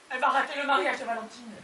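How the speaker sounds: fast, tearful complaint; tearful lament. Acted. Wife mourns aunt missing the wedding, tearful. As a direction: lament it quickly through tears.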